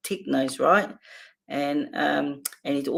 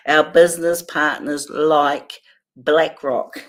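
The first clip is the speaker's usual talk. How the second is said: laughing mock quote; 6 dB louder than usual. Real, not acted. Mocking government phrase.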